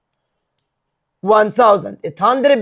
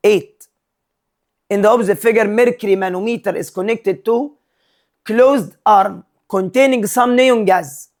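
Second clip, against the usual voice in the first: slow, deliberate read of an exam question; much slower than usual. Acted. Teacher reads the question slowly to his students. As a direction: spell the problem out slowly for the class.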